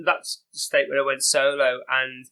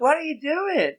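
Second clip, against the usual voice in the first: much higher, louder Southern drawl, flirty; mock Southern belle calling out sweetly; a hammed-up Southern drawl, pitched well up; 13 semitones higher, 5 dB louder than usual. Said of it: "like, southern drawl".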